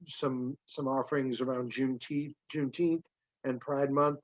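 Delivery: hoarse, tired voice after hours of talking; a voice worn out from talking; losing voice. Real, not acted. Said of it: "I'm losing my voice".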